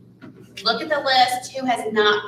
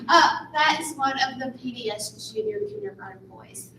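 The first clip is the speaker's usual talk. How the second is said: after crying; 4 semitones higher than usual. Real, not acted. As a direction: still teary, voice catching. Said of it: "Little teary".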